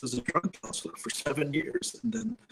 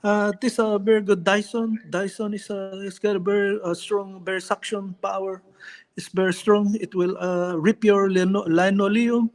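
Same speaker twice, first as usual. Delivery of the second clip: humble boxer selling a Dyson; Manny Pacquiao impression; 4 semitones higher than usual. On request, Pacquiao selling vacuums door to door. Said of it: "Can you do Manny Pacquiao selling vacuum".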